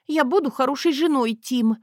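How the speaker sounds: high tearful sniffle; half-sob the promise; sniffling. Acted. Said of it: "всхлипнула я".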